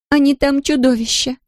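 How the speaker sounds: put-on high, tearful girl with a strong Polish accent; a lost Polish girl in broken Russian, strong Polish accent. A narrator's reading. Tearful Polish girl asks the shopkeeper about buses, strong Polish accent. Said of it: "с сильным польским акцентом".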